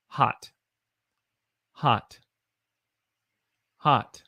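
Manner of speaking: "hot" with a short open ah; isolated "hot" with a short O. Shown as a demonstration. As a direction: model "hot" clearly, one careful word at a time. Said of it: "is a short O sound".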